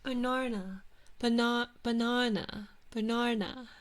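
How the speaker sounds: banana as "buh-NAR-nuh" in British accent. Shown as a demonstration. Streamer practising banana, British accent. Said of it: "pronounce banana the British way".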